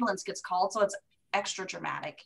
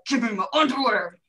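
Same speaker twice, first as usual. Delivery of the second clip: laughing through the demand, louder; 5 dB louder than usual. Retold or imitated. Patient begging the nurse for her underwear, laughing. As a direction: giggle out the request.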